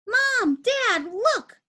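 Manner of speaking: high-pitched eager calling out; excited child. A narrator's reading. Peter running to show parents his coin, high excited call. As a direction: call your parents to see your prize.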